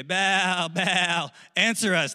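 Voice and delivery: half-shouted chant for an answer; mock crowd shout; mild shouted plea. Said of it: "they shouted".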